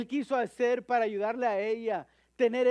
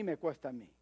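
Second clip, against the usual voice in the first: quiet emphatic echo; preacher echoing his point softly to himself; low, quiet echo; 6 semitones lower, 7 dB quieter, faster than usual. Shown as a demonstration. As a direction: repeat it lower and much softer, as if to oneself. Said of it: "si me cuesta a mí".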